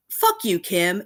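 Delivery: angry outburst. Real, not acted. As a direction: pitch jumps way up on a real angry jab. Furious at Kim in a rant.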